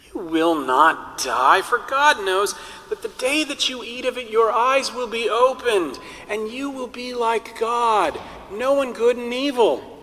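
tempting serpent. Acted. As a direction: sell the lie, lifting to a shout at the end. Serpent tempts Eve with promise.

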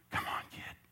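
under-the-breath plea; whispered urging. Retold or imitated. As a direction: beg him quietly. Coach urging kid.

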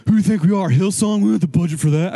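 mock grumbling objection, quick to dismiss. Grumbler shooting down ideas in a church meeting, mock grumbling. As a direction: imitate a dismissive naysayer, lightly grumbled. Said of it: "just grumbling".

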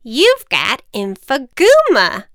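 slow, loud witch. Acted. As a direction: pronounce the diagnosis gravely. Witch diagnosis.

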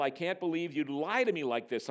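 understated parental reproach; mild scolding. Acted. Father to his fibbing daughter, mild scolding. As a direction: scold lightly, as a hurt father. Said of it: "I scolded".

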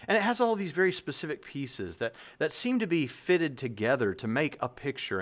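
a hint of a mouse presenting evidence; lightly voiced mouse. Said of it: "the Tyler mouse says".

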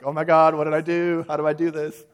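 retold panic, high and loud; almost crying. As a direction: imitate someone frantic after a blunder. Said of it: "almost crying".

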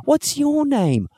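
slow, high put-on giant voice; Hagrid voice. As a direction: drag it out like the gamekeeper. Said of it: "My name's Hagrid".

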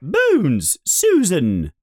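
high, stern roll call; calling the name across the hall; McGonagall calling. Acted. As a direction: call the name out like a strict teacher. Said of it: "yells Professor McGonagall".

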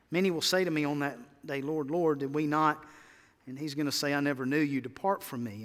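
a hushed, solemn telling; quiet scripture quote. Acted. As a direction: speak it low and grave. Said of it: "Jesus says that in Matthew seven".

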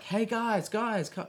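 high-pitched mock yell to the group; imitated calling out. Contestant calling back to her searching group, mock yell. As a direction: call out high, without real volume. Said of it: "She had to yell out to them".

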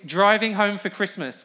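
put-on slow, clear model line for kids to copy; slow demo line. Shown as a demonstration. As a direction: say it slowly and clearly as an example. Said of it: "Now, the line is".

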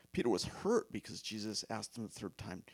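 breathless hush over Peter's pain; hushed whisper. Real, not acted. Preacher whispering to the congregation about Peter's hurt. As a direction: whisper it as if sharing a wound.

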